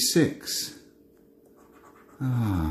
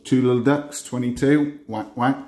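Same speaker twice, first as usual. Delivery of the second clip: bingo caller. Acted. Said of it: "I start doing my bingo calls".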